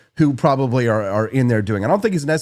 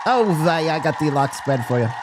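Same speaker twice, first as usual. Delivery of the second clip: mock Jewish New York accent in a changed voice; Jewish New Yorker. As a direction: play a New York deli man handing over the lox. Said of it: "There's the Jewish New Yorker".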